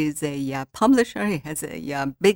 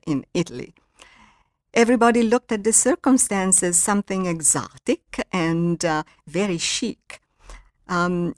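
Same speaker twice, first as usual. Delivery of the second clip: author reading her novel aloud; measured, expressive narration for an audience. Acted. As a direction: read it out like a storyteller.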